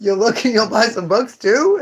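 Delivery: slow, high, sing-song nudge to buy; hammed-up bookseller coaxing a customer; mock sales pitch. Shop clerk coaxing a browser, in a mock sing-song. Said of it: "I'm always like".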